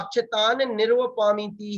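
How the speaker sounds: अक्षतान with an insistent long -aan; insisted correct form. Shown as a demonstration. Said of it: "ही बोलना भी चाहिए".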